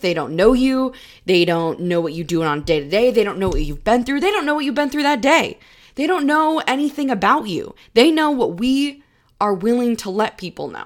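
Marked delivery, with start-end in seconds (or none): 0.0-9.0 worked-up, heated, raised-voice outpouring. Speaker insists outsiders know nothing about your life, getting heated. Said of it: "i'm getting heated I need to take a breath".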